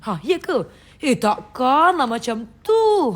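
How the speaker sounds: imitating a loud Malaysian KL lilt, drawn out; mock a KL Malaysian reacting in disbelief; loud KL Malaysian accent impression; Malaysian KL intonation. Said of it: "kalau Malaysia, menurut Tia lah, K L lah".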